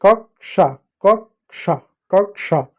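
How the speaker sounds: कक्षा split into "kak - sha", three times; कक्षा in two separated beats; repeated model pronunciation. Shown as a demonstration. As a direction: drill कक्षा with a clear "sha". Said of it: "कक्षा पढ़ते हैं".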